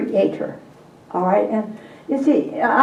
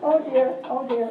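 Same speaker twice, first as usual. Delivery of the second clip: laughing; 5 semitones higher, much slower than usual. Real, not acted. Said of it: "I did it in Spanish".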